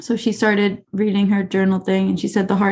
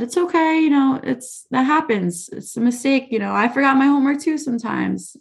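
put-on soothing, higher-pitched comfort to a child; reassuring; 5 semitones higher than usual. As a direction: gently lift her up, it's really fine. Teacher calming anxious crying student.

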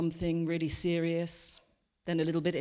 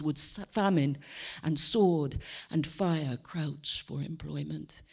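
Shakespeare recital. Shown as a demonstration. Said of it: "I'm trained to do Shakespeare".

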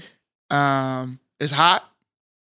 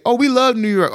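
higher-pitched mimicked New York fan; mock praise; 7 semitones higher, 3 dB louder than usual. Texan mimicking New York fans to friend, mock praise. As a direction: gush it, imitating an outsider.

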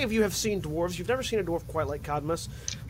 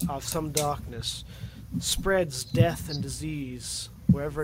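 Zeron, solemn blood hunter; 2 semitones lower, 3 dB quieter than usual. Acted. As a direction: weigh out each phrase like an ominous warning. Plays Zeron telling of his quarry.

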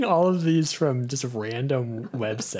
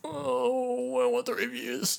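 whiny plea; 10 semitones higher, 6 dB quieter than usual. Pretend. Playful whiny plea for reviews.

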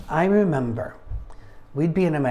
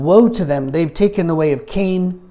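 scripture reading; 7 dB louder than usual. Acted. Reads scripture aloud.

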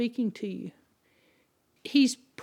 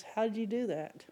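whispering; 3 semitones lower, 9 dB quieter than usual. Retold or imitated. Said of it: "he's whispering under his breath".

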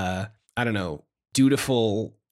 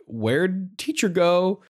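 mock confused kids; 5 semitones higher, much slower than usual. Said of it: "your kids are like".

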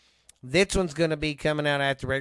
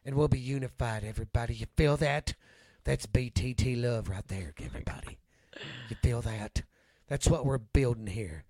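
TV evangelist. Acted. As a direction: lead the flock gently like a TV preacher. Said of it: "You sound like a T V evangelist".

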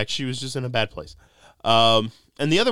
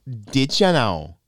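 put-on slow, drawn-out Wisconsin accent; 2 semitones higher, 5 dB louder, much slower than usual. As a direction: imitate a thick Wisconsin accent, louder. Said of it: "You just went full Wisconsin".

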